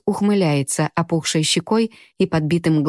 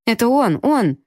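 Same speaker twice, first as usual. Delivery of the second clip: squeaky voice; 5 semitones higher than usual. Acted. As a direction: squeak it out, tattling. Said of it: "подал писклявый голосок светловолосый". (писклявый голосок, громко)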